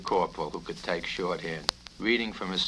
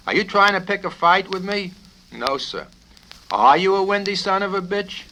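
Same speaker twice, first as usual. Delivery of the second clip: much higher and louder, near shouting; furious colonel; 11 semitones higher, 10 dB louder than usual. Acted. Colonel screaming at the cadet, furious. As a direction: pick a fight, shouting.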